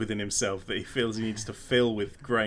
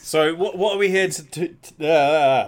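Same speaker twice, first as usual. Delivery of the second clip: louder, halting and repeating words; tongue-tied stumble; 3 semitones higher, 8 dB louder than usual. Real, not acted. Co-host fumbles asking what they are here for, tongue-tied. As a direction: trip over the question and trail into a loud uh. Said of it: "barely even got that sentence out".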